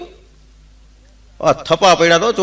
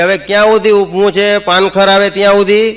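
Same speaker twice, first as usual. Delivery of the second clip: impatient wife; 5 semitones higher, 4 dB louder than usual. Retold or imitated. Wife scolds lingering husband.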